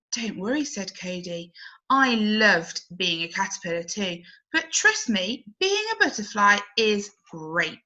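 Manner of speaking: kindly comforting the little one; gentle reassurance. Acted. Cody reassures young caterpillar.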